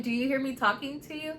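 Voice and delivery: acted-out exasperated parent; retold parental scolding. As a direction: challenge a child who is ignoring you. Retold scolding of her child.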